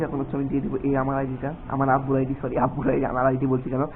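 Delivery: quietly confiding to the camera; hushed talk. Real, not acted. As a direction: keep it down so nobody nearby overhears. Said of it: "আমি খুবই আস্তে কথা বলছি".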